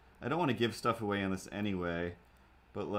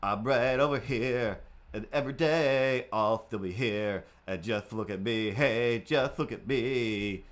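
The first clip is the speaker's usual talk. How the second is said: cat voice, mock diva; 3 dB louder, slower than usual. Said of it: "and be like".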